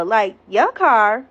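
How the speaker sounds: drawn-out questioning your car; slow incredulous echo to the ex; slow disbelieving echo. Retold or imitated. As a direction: stretch it out slowly in disbelief. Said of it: "I'm looking at him like".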